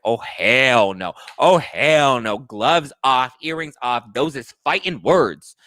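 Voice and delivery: loud, drawn-out sassy outrage; fighting-mad outrage. Acted. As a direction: square up for a fight, mock-furious. Recapper reacts as if squaring up.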